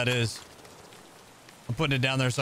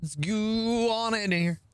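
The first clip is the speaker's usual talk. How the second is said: gung ho; 8 semitones higher, slower than usual. Real, not acted. Hyped stream catchphrase.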